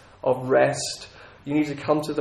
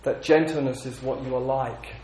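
gentle voice of God; 2 semitones lower, 3 dB quieter than usual. Retold or imitated. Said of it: "He says".

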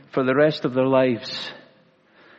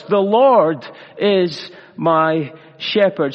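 slow, deliberate; slower than usual. Shown as a demonstration. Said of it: "Five simple words".

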